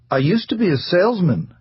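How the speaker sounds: high, plaintive interjection; a wounded little protest. Acted. Husband cuts in on his wife, plaintive and high. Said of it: "Hartley interjected plaintively".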